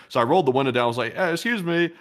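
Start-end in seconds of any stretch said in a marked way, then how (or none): 1.2-1.9 put-on high, drawn Southern US accent. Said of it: "in a sort of Southern accent".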